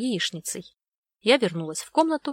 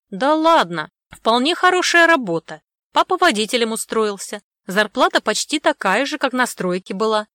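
loud, higher insistent interruption; interrupting mom; 3 semitones higher, 8 dB louder than usual. Acted. Mom cutting in over dad, loud and eager. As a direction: cut in brightly to talk him up. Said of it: "перебила его мама".

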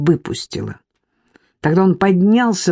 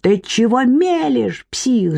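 higher, slow screeching; 5 semitones higher, slower than usual. Acted. Irka rushing at her husband, higher slow screech. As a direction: screech at him. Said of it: "заверещала Ирка".

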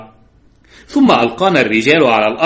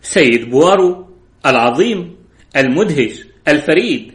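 sarcastic. Acted. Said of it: "قالت ساخرة".

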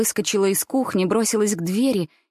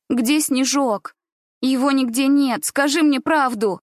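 higher, slow, pleading then pressing; anxious demand; 5 semitones higher, 3 dB louder than usual. Acted. Gulya demanding the truth about her dog from grandmother, anxious. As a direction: beg for the truth, voice climbing.

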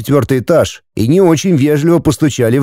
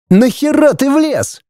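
much higher, slow, outraged; furious young man; 14 semitones higher than usual. Acted. Andrei rounds on the narrator, high, slow and furious. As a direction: hurl it at him. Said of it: "налетел на меня Андрей".

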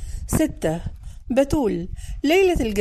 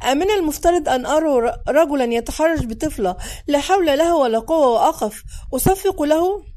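shouting at them; 3 semitones higher than usual. Acted. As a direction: scold both of them, outraged. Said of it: "صحت فيهما".

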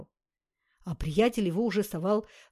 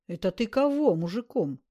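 угрожающе, громче; наехать на бомжа; напряжённая угроза; 2 semitones higher, 5 dB louder than usual. Acted. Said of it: "напрягся Туча". (Туча набычился на оскорбившего бродягу)

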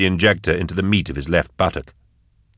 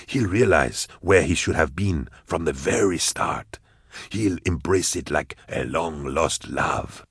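low, soft calculating schemer; quietly scheming, voice dropped low; scheming villain; 3 semitones lower, 6 dB quieter than usual. Acted. Goblika's gloating plan.

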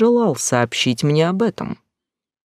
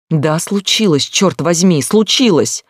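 distraught outburst; 4 semitones higher, 4 dB louder than usual. Acted. Sister breaking down on phone.

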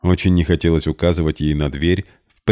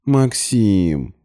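languid drawl; 4 semitones higher than usual. A narrator's reading. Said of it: "томно протянула Полина".

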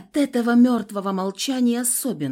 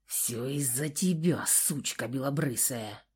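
low menacing; 6 semitones lower, 7 dB quieter than usual. A narrator's reading. Villain continues snarl.

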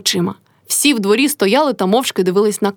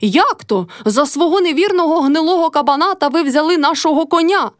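shrieking; 7 semitones higher than usual. A narrator's reading. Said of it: "репетувала Мотря".

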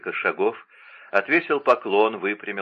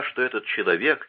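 ordinary delivery

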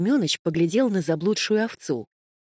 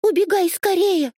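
high, loud urgent yell; panicked shout; 13 semitones higher, 6 dB louder than usual. A narrator's reading. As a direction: shout at her to run. Kitten warns sheep in panic. (громкий испуганный крик)

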